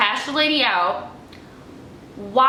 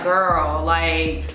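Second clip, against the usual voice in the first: lower, slow, knowing aside; instigating neighbor; 4 semitones lower, much slower than usual. Retold or imitated. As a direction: egg her on under your breath. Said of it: "was like".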